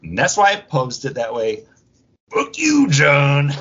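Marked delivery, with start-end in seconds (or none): 2.3-3.5 high, loud punchline shout; a sudden playful yelled sign-off; mock sign-off shout. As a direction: yell the catchphrase like a game show host.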